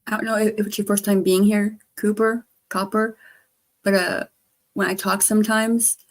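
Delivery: lisping through missing front teeth; words blurred by missing front teeth. Real, not acted. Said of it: "I am missing my front teeth".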